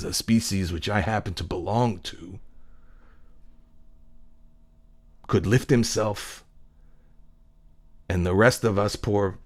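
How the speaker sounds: soft, reverent movie-speech voice, lightly acted; hushed retelling. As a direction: quietly relive a moving monologue. Retelling cook's moving monologue.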